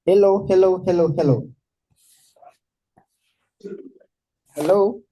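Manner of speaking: loud repeated hellos; calling out. Real, not acted. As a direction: call into the mic to be heard. Mic check after volume complaint.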